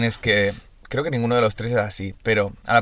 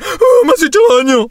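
high, louder whimpering crybaby; mock crying; 8 dB louder than usual. Teasing a friend by faking his crybaby whine. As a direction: whine like a child who got hurt. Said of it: "te pones, bueno, a llorar".

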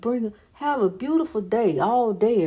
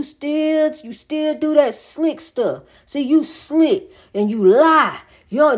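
changed-up voice; 2 semitones higher, slower than usual. Retold or imitated. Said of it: "he changed his voice up".

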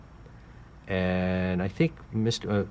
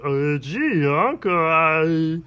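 high, halting nephew voice stuttering over uh; timid nephew asking his uncle, climbing higher; Wally voice; 8 semitones higher, 4 dB louder, slower than usual. Retold or imitated. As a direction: do Wally stammering up to a high squeak. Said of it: "used to talk like this. He goes".

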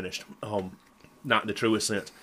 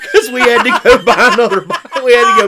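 loud, high, helpless laughter through the words; laughing hard; 8 semitones higher, 10 dB louder than usual. Real, not acted. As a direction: push the punchline out while cracking up. Cracking up at his own punchline.

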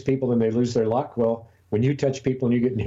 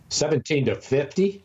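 surprised; 4 semitones higher than usual. Real, not acted. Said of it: "That seems crazy to me".

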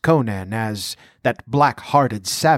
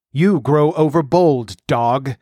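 louder, menacing growl; 3 semitones higher, 4 dB louder, slower than usual. Acted. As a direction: threaten the slave with a growl. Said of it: "growled the outlaw".

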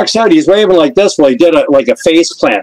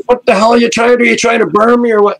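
a hint of the singer's alarmed outrage, raised high; hammed-up horrified "what the hell" in a raised voice; retelling a star's alarmed refusal in a raised voice; mock indignant outburst; 9 semitones higher, faster than usual. The singer angrily refuses.

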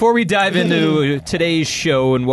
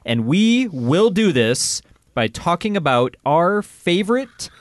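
slow, hammed-up show-host build with rolled R's; milk each word like a cheesy horror trailer; mock-serious intro, stretching the words out; dramatic announcer with rolled R's; slower than usual. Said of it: "I'm laughing at the rolling of the R's".

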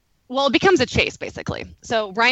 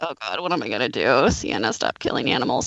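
mock panic; 9 semitones lower than usual. Wife panicking about dog's kill.

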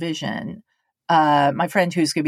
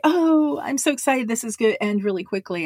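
eager friend; 5 semitones higher, faster than usual. Retold or imitated. Friend arriving upbeat.

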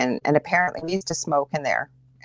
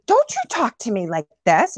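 higher-pitched indignant snap, re-enacted; retold rage; 6 semitones higher than usual. Wife retelling snapping back at her yelling husband, acted rage. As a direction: act out lashing back in anger. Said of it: "I felt this rage".

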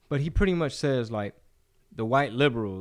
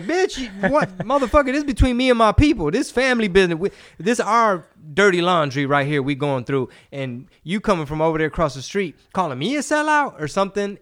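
much higher, louder mock rant; mock furious reply; 8 semitones higher, 7 dB louder than usual. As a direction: tear into the outsider commenter. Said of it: "And like".

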